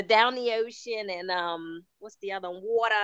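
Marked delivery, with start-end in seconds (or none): 0.0-1.1 put-on South Baltimore accent. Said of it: "she has the". 2.6-2.9 Baltimore "water". Retold or imitated. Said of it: "She has that one".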